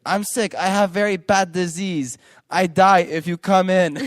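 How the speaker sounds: high, loud mother pleading off her son; shrill panicky mother pretending illness; mother's panicked voice. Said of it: "And she's like".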